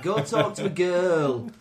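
mock sneer. Mock stereotype rant.

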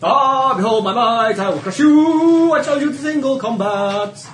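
hammed-up heroic challenge, sung out; loud, slow, half-sung boast; mock heroic bellow. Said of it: "it's like".

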